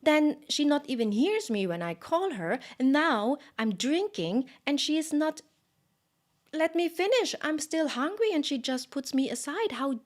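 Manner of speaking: put-on high, loud indignant child's tantrum; angry toddler Krishna. A narrator's reading. Baby Krishna complaining his mother put him aside, high loud tantrum. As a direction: sputter like a baby denied his milk. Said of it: "And he became so angry".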